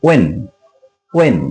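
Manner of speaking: when said as "wen", h silent. Shown as a demonstration. Teacher models when for viewers, no h. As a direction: say when twice, separately, starting on plain w. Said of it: "এরকম pronounce হবে".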